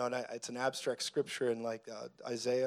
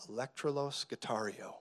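mock Greek; 6 dB quieter than usual. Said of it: "instead of trumpet".

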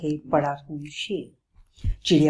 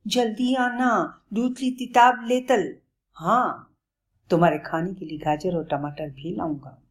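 sad; 3 semitones higher than usual. Acted. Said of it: "दुखी हो गया और बोला".

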